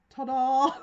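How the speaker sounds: big, high, showy ta-da; ta-da flourish. Acted. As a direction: announce it like a magic trick reveal. Priestess revealing herself, playful flourish.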